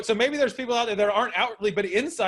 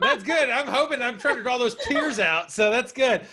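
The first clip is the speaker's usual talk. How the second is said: laughing; 4 semitones higher than usual. Real, not acted. Host laughs at guest's tears.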